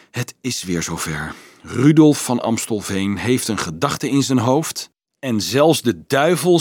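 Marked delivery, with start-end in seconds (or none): 0.1-1.3 lower, softer remark. A narrator's reading. The student confiding in Marieke, softly. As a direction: confide it quietly. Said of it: "zei de student zacht".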